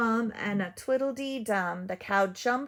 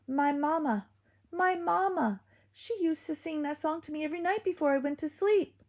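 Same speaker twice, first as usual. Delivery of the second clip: sentimental wolf; 8 semitones higher than usual. Acted. Wolf moved by lullaby.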